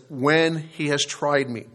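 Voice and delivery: "when" held long, slow and emphatic; stress on WHEN. Real, not acted. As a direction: answer firmly with a slow, weighted "when". Answering if with when.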